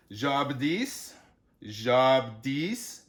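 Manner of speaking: JABADIS, Jabdis, final DIS stressed and drawn out; jab-a-DIS, jab-DIS, said deliberately; stress on last syllable. Shown as a demonstration. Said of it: "emphasis is usually on the last syllable".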